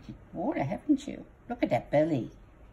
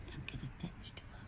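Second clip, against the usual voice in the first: secretive unvoiced whisper; mock-jealous whisper; 14 dB quieter than usual. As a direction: hiss it like a conspirator. Whispered aside to bat.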